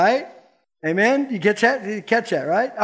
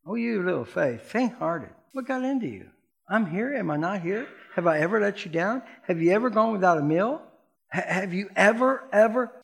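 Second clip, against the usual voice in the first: gentle Jesus; 5 dB quieter than usual. Retold or imitated.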